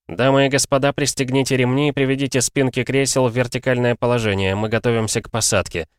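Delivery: a hint of a cabin announcement; polite airline announcement voice; flight attendant. Pilot announces landing.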